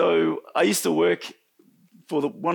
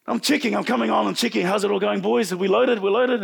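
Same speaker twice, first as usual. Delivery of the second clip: higher, urgent checking-in with the crew; hurried re-enactment; 5 semitones higher than usual. Retold or imitated. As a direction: act out checking on the loaders.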